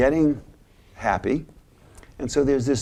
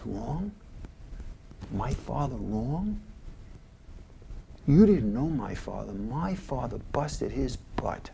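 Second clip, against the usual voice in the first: hushed emotional Archie; 2 semitones higher, 4 dB quieter than usual. Retold or imitated. Archie quietly defending his father to Michael, softer and hurt. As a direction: let it sink in quietly, hurt. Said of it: "Archie does something like this".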